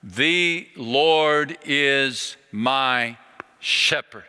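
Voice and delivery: each word drawn out very slowly; very slow, deliberate recitation; slow, finger by finger. Retold or imitated. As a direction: count the words off on your fingers. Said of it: "ticking off one finger at a time".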